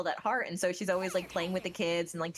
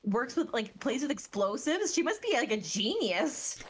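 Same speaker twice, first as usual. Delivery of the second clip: bright, raised, admiring; Yoimiya's voice; 5 semitones higher than usual. Retold or imitated. Yoimiya praising the little explosives kid, lightly voiced. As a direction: marvel at the kid like a cheerful big sister. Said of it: "She's like".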